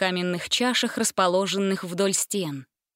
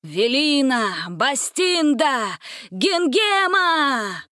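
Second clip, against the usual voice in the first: slow, rising summons, ever higher; calling out; 5 semitones higher, much slower than usual. A narrator's reading. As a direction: sorcerer summoning the three sisters. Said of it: "выкрикнул колдун".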